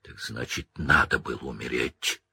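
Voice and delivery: low, menacing growl, half breathed; furious growl at the traitor. Acted. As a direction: growl it low through the teeth. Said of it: "прорычал Блэк".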